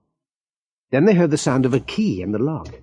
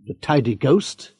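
slow, worried rising question; puzzled question; 2 semitones higher than usual. Acted. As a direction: echo it back in confusion. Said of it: "Mister Webb looked worried".

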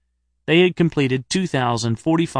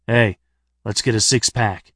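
party voice. Acted. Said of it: "in a party voice".

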